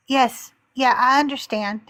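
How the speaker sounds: meekly agreeing, voice settled and even; mock calm and docile. Imitating the guest once a man spoke, calm and docile. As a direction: imitate a suddenly obedient guest. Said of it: "he was so calm and docile".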